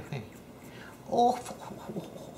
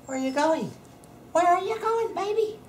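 very high sing-song coo at a pet. Real, not acted. Cooing at pets.

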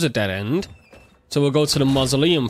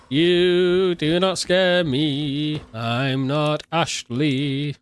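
mock taunt; much slower than usual. Taunting enemy slowly.

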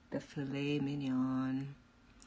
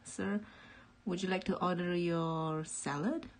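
posh, formal waiter voice; fancy waiter; 2 semitones higher than usual. Retold or imitated. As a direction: play a polite fancy waiter. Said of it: "he's really fancy. He's like".

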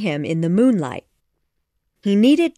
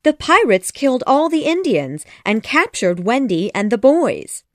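high, excited fairy voice; urgent outburst; 6 semitones higher, 4 dB louder than usual. A narrator's reading. Tink breaks bad news to Peter, urgent and high. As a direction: blurt out the news in one go. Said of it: "she said all at once".

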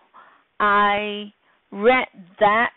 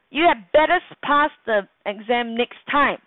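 stern warning to a student; 2 semitones higher than usual. Shown as a demonstration. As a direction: snap it like a teacher's warning. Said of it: "It's like a warning".

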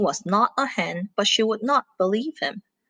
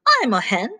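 proudly; 3 semitones higher than usual. Acted. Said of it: "said Bella proudly".

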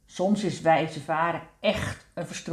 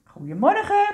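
very high, chirping greeting; little chorus call; 14 semitones higher, 5 dB louder than usual. A narrator's reading. Tulips greet everyone in chorus, high tiny calling voice. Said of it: "roepen de pul-, tulpjes in koor".

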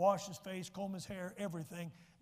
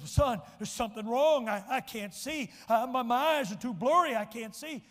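distressed; 3 semitones higher, 8 dB louder than usual. Retold or imitated. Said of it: "And he said again".

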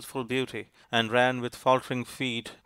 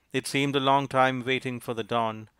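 usual speaking voice

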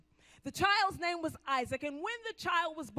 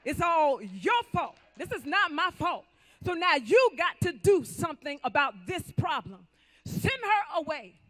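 mock blaming wife; 5 dB louder than usual. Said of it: "Come on, ladies, you understand".

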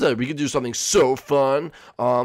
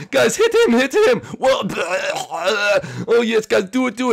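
egging them on; 5 semitones higher, 4 dB louder than usual. Acted. Urging friends during prank.

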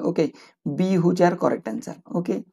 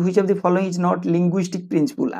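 slow question read-out; much slower than usual. Shown as a demonstration. Teacher reads exam question aloud.

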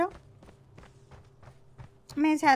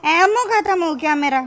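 dismayed outcry; 3 semitones higher, 6 dB louder than usual. Real, not acted. Ammo runs out mid-fight.

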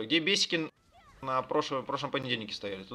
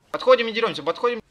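shouted command; 8 semitones higher, 11 dB louder than usual. Real, not acted. Raid leader calling to fight.

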